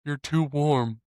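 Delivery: a hint of a high, creepy impression; Ed Gein. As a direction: say it slightly high, in a creepy character voice. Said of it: "he's like".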